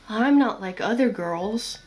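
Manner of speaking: put-on pick-me girl voice; lightly hammed-up girl trying to impress; Deku. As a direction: imitate a pick-me girl in a cartoonish voice. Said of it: "doing a Deku voice when I'm, like, imitating these girls".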